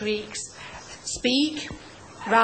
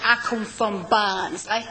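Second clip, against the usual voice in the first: put-on quick Yorkshire accent on one line; teacher showing the class a Yorkshire accent; 3 semitones lower than usual. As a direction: drop into a Barnsley Yorkshire voice. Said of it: "that's a Yorkshire accent".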